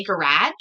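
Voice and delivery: "garage" with a front "a", rising; rejected pronunciation. Shown as a demonstration. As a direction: say "garage" as "guh-RADGE", questioning. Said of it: "here we would never say".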